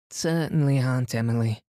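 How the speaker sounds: put-on high, prompt girlish answer; eager reply. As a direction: answer her aunt at once.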